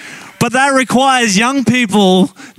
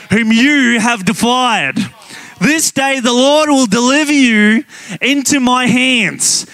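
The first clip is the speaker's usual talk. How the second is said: battle cry; 4 semitones higher than usual. Acted. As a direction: hurl it at the giant like David. David's battle cry read aloud.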